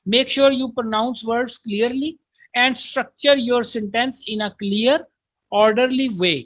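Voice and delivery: very slow, careful reading aloud of an English text; slow textbook reading. Shown as a demonstration. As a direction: read each English word out slowly for the class. Reads English text slowly. (धीमी, साफ़ अंग्रेज़ी पाठ वाचन)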